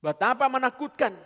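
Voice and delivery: loud, high cry of dread; fervent exclamation. Acted. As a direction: throw the line out like a warning. Preaching climax.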